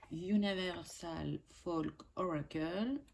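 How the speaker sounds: name said the English way with a put-on English accent; lightly playful English accent on the brand name. Shown as a demonstration. Tarot vlogger reads the deck's name to viewers in a jokey English accent. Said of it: "avec mon superbe accent anglais".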